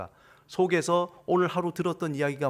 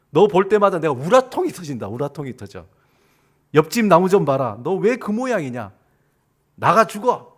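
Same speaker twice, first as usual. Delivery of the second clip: acted berating, building to loud outbursts; abusive scolding; 7 dB louder than usual. Experimenter cursing plant B, abusive scolding. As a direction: scold with mock contempt, ending in a loud dismissal. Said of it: "아주 나쁜 말을 한 거예요".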